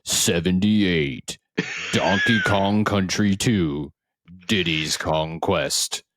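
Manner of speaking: announcer voice. Acted. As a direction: count down like a Game Awards host. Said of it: "He's got that announcer voice".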